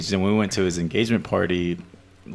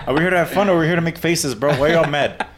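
high, fast, breezy teasing; mock teasing; 5 semitones higher than usual. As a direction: needle a grumpy friend. Teasing Ruben the next morning.

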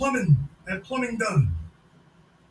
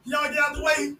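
mock suitor; 3 semitones higher than usual. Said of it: "Old boy's like".

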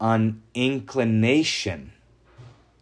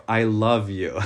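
scare-quoted I love you; slower than usual. Shown as a demonstration. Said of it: "like telling your wife".

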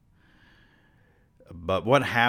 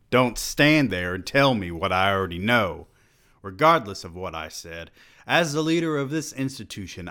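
angry rebuke; 3 semitones higher, 6 dB louder than usual. Acted. President silencing student's protest.

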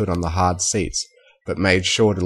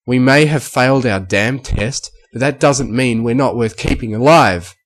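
louder, higher angry outburst; shouted in rage; 5 semitones higher, 7 dB louder than usual. Acted. Filly defending her friends' worth, raging shout. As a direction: snap back at them with wounded pride. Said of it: "Scootaloo shouted in a flash of rage".

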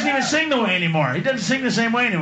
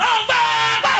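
mock panic; 11 semitones higher, faster than usual. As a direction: scream it like the bomb is on you.

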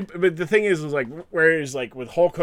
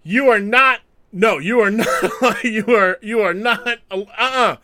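higher and louder, mock outrage; heated denial; 5 semitones higher, 4 dB louder than usual. Kevin Owens heckling Elias at his concert, mock outraged. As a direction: refuse it with a laugh. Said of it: "Kevin Owens like".

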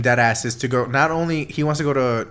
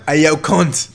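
mock Australian; 3 semitones higher, 4 dB louder, slower than usual. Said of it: "that was an Australian at all".

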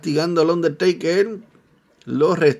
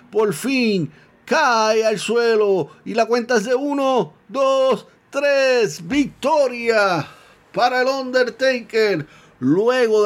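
excited, higher play-by-play climax; wrestling commentator; 4 semitones higher than usual. Acted. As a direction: call the finish with rising excitement. Climax of wrestling match call.

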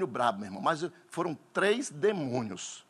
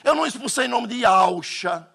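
loud, higher insistent denial; preaching shout; 6 semitones higher, 5 dB louder than usual. Real, not acted. Pastor shouts to the congregation about the name. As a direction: hammer it home to the church.

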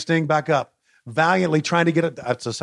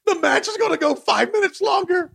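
frantic mock sports commentary; 12 semitones higher than usual.

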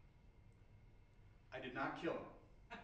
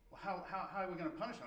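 imitated fuming wife, higher and louder; retold exasperation, raised voice; 7 semitones higher, 5 dB louder, faster than usual. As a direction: stammer out a mock-indignant demand. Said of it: "my wife's just fuming".

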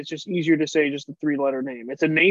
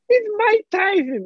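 very high, slow, bad boxer impression; Mike Tyson; 4 dB louder, slower than usual. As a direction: drag it out in a silly falsetto. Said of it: "doing a Mike Tyson impression".

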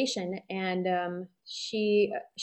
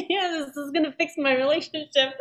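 excited; 6 semitones higher than usual. Retold or imitated. Mock excitement, laughing.

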